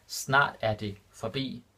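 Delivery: Snart er det forbi spelled out slowly, every word distinct; slow it right down so students catch each word; slow and clear. Shown as a demonstration. Teacher repeating the Danish example for learners, slow and clear. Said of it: "repeated slower for learners".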